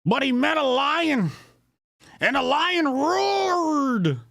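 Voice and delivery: high, hammed-up parody of stump oratory; mock Mufasa speech. Host ridicules senator's lion story, mock Mufasa speech. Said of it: "Fake ass Mufasa speech".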